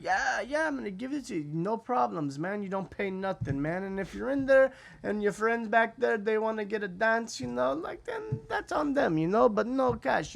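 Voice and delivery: high, excited reassurance; eager driver. Retold or imitated. Taxi driver promising free entry, high eager pitch. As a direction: sell it hard, voice climbing.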